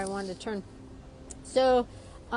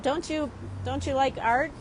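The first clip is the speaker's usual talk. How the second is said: cheeky question; 3 semitones higher than usual. Retold or imitated. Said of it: "I even said".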